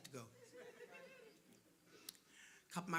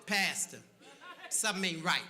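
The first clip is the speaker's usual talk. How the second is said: louder, knowing street-wise warning; wary warning; 7 dB louder than usual. Retold or imitated. Streetwise friend warning the pastor, loud and knowing. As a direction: tip him off that it smells wrong.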